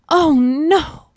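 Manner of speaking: high, loud squeal of a little mouse; high-pitched, dismayed mouse cry; crying out in alarm. A narrator's reading. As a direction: cry out as a frightened tiny mouse. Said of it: "cried the little mouse".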